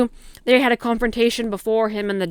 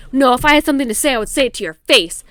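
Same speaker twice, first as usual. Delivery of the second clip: defensive retort; 3 semitones higher, 5 dB louder, faster than usual. Retold or imitated. Retold denial in acted quarrel.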